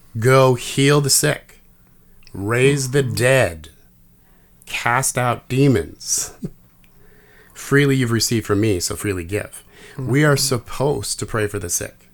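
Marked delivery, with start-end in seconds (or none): 0.2-9.7 firm, authoritative delivery. Quoting a command given to the disciples: quoting a command tone. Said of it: "in a command tone of voice".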